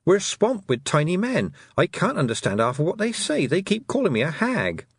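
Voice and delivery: high-pitched, flustered complaint; exasperated girl. A narrator's reading. Tiffany complains to the toad.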